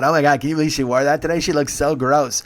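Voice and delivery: mock loud, catty guests; loud gossiping. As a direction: imitate noisy gossip with judgment. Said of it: "they're being loud".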